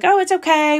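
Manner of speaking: mock the cheery phone clerk brushing it off; chirpy receptionist. Insurance caller quoted on phone.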